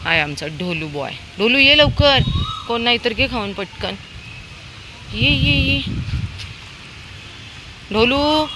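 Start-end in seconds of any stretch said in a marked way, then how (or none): 1.4-4.0 high, loud call to a dog. Real, not acted. Woman calling Dholu to come quickly, high loud call. 5.1-8.5 calling a dog. Real, not acted.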